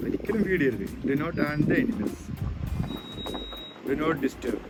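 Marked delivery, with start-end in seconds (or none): 1.1-4.6 reading a sign word by word; very slow, careful English. Real, not acted. Reading sign aloud slowly.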